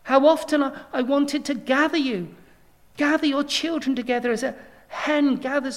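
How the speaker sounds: pressing the word gather; longing, pushing the plea out; Jesus lamenting over Jerusalem, earnest plea; yearning plea. Acted. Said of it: "Jesus says".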